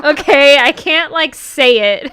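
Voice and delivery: loud, high, flustered defence with laughter; laughing protest. Real, not acted. Danny defends pronouncing it only when singing, laughing protest. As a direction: protest loudly through your own laughter.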